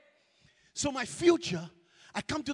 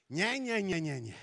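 sing-song taunting; 5 semitones lower than usual. Retold or imitated. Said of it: "that voice in the morning".

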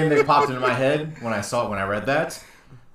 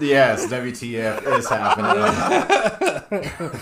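slow disbelief; 3 semitones lower, 4 dB quieter, much slower than usual. Real, not acted.

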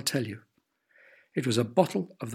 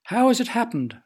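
a much higher, louder wondering question; amazed question; 8 semitones higher, 5 dB louder than usual. A narrator's reading. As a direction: ask it in sheer amazement. Father amazed at healthy garden.

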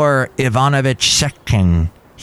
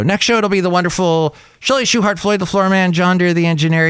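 announcer hype; 8 semitones higher, faster than usual. Real, not acted. Announcing next guests, hyped.

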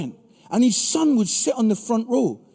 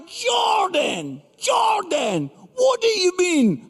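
high, raised exasperated calls; exasperated dad; 9 semitones higher, slower than usual. Retold or imitated. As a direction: call the son out, pitched up. Father confronting son in car.

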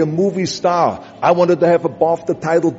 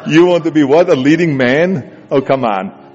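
mocking disbelief. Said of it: "their reaction was".

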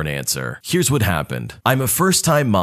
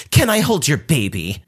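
entitled cousin; 5 semitones higher than usual. Retold or imitated. Cousin asks husband sweetly.

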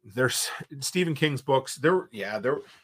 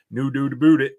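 put-on louder, teasing Eastern Canadian accent; mock Eastern Canadian accent; 2 semitones higher, 8 dB louder than usual. Host answering jab at Canadians, mock Eastern Canadian accent.

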